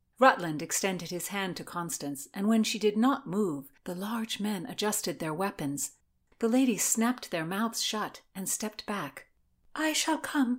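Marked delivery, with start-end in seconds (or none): 9.8-10.6 tiny, very high, small little voice. A woman facing armed men agrees to go with them, in a tiny voice. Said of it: "she heard herself say in a tiny voice".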